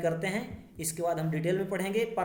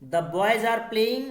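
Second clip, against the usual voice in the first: very slow, each word set apart; slow reading; 6 dB louder, much slower than usual. Shown as a demonstration. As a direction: drag the sentence out for students to follow. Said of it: "next है".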